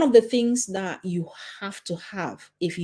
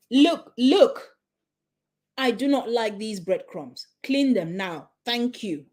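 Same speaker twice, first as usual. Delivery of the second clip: firm command; 3 semitones higher than usual. Shown as a demonstration. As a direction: command that they clean now. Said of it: "which one are they going to take seriously".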